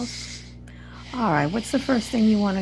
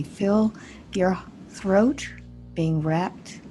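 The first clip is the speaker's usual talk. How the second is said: guided meditation. Acted. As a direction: guide them gently through the imagery, unhurried. Guides a healing visualization.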